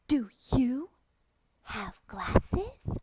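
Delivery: slow, lilting teacher question; slow question to child. Shown as a demonstration. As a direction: ask a beginner with wide-eyed interest. Asks imagined young student.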